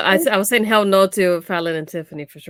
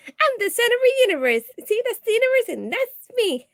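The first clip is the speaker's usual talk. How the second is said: much higher, laughing, mocking a self-absorbed diva; 13 semitones higher than usual. Cohost laughing while mocking the vain Tiffany parody. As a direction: play the vain wrestler, giggling through it. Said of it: "It's like".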